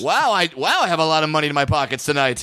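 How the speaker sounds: dramatic statement. Pretend. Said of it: "just saying dramatic statements like".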